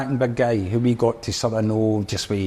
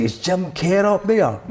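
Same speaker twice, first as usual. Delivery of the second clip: higher, slow put-on teasing voice; impression of a singer; 9 semitones higher than usual. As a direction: stretch it out like a cheeky wind-up merchant. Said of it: "He's like".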